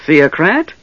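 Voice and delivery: high, strange goblin squeak sneering at the question; mocking goblin. Goblin scorning Tanis's question, mocking. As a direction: scoff at the name.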